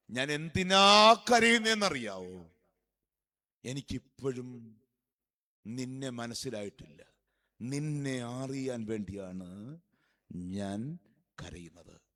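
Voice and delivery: loud drawn-out cry falling to a low, slow murmur; swelling plea that fades away; acted tearful reply. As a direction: answer as if with brimming eyes, sinking low and slow. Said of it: "നിറമിഴികളോടെ".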